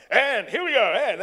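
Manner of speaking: loud, high, brash set call; wrong tone. Retold or imitated. First AD wrongly blaring the cue at a fragile actor, brash. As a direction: bellow it out brashly, breaking the mood.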